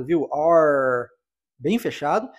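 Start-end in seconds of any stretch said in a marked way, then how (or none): 0.3-1.1 "R" said tight and closed; a tight, curled American "R". Shown as a demonstration. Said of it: "esse R é mais fechado". ("R" americano bem fechado)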